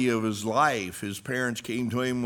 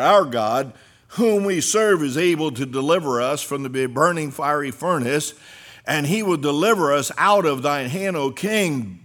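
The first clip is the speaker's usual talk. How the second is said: louder, rising defiant proclamation; preaching the youths' answer; 3 dB louder than usual. Acted. Preacher voicing the three youths defying the king, proclaiming. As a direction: proclaim their faith boldly.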